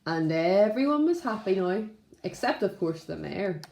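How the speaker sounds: gentle, steady storybook narration; reading to children. A narrator's reading. Teacher reading a story to Primary One, gentle storytelling. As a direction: tell it like a picture book at story time.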